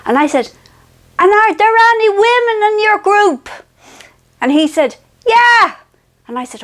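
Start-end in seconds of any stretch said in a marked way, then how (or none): 1.2-3.5 anxious question. Retold or imitated. Anxiously asking guide on phone. 5.3-5.8 guide's reply. Retold or imitated. Guide's reply on bad line.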